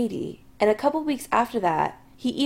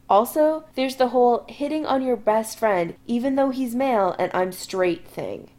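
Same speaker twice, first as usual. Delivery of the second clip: tightly; 3 semitones higher than usual. Acted. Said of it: "Adam says tightly".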